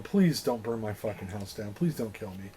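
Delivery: low, soft begging; understated mock pleading. Captive star begging the fan, subdued plea. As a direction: plead quietly, dropping in pitch. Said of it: "starts going".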